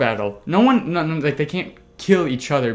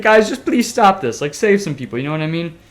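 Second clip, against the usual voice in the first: pleading Spectre voice; 4 semitones higher, 5 dB louder than usual. Retold or imitated. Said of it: "It's like".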